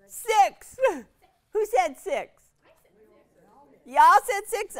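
high, loud, playful disbelief; mock surprise. Real, not acted. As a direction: tease the audience for their answer.

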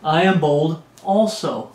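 slow, measured boast read out; deliberate boast. Acted. Preacher reading Paul's boast, slow and deliberate. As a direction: take your time over each word.

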